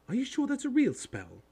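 high, loud, sceptical schoolgirl; officious, pitched well up; bossy girl. A narrator's reading. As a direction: question it like a know-it-all. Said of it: "She had a bossy sort of voice".

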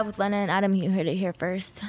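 breathy stage whisper. Real, not acted. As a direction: whisper it like a secret. Gossip reveal, unvoiced.

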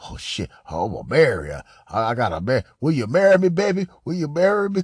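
a caught cheater pleading will you marry me; mock panicked proposal. Caught cheater begging his woman, mock pleading. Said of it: "a nigga be like".

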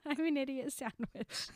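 hammed-up chef scolding; mock Gordon Ramsay. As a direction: play the TV chef. Ramsay parody dialogue.

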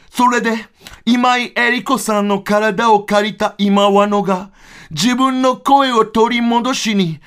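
slow, deliberate explaining; lightly voiced Kachina. A duo singer explaining the voice swap, slow and lightly voiced. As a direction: spell it out word by word.

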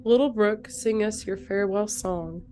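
sick voice, gently reading a poem. Real, not acted. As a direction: read the poem with your sick voice. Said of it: "you have your sexy, sick voice".

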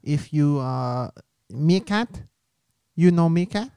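slow, put-on Asian accent. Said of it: "Once you do an Asian accent".

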